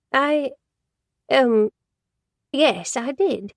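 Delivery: lightly voiced gossipy office lady, fond of Benjamin; a hint of a chatty secretary; Joyce, chatty older secretary. A narrator's reading. Secretary Joyce gossiping to Ash, lightly voiced and chatty.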